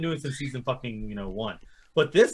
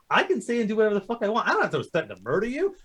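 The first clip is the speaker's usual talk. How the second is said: higher, smug, slowing at the end; smug villain; 5 semitones higher than usual. Retold or imitated. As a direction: taunt like an untouchable tyrant. Voicing Homelander's threats.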